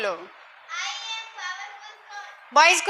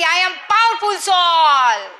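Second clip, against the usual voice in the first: loud; much slower than usual. Shown as a demonstration. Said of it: "जोर से बोलेगा कि".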